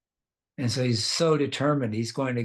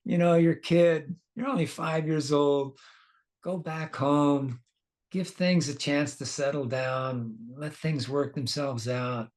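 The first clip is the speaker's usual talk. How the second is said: put-on higher, gently persuading a child; compassionate coaxing; 3 semitones higher than usual. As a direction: talk a stubborn boy down kindly. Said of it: "show some compassion on him".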